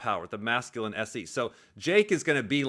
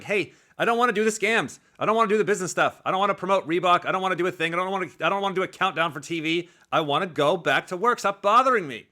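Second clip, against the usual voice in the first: higher, louder, slightly rushed gripe; mock Nate whine; 5 semitones higher, 4 dB louder than usual. Host imitating Nate complaining to Dana, higher and louder. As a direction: mimic a fighter brushing off the boss, a bit raised.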